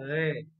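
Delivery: "re" with its first consonant thinned. Shown as a demonstration. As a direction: soften and thin the opening sound of "re". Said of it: "Cuma ditipiskan". ("re" dengan bunyi awal ditipiskan)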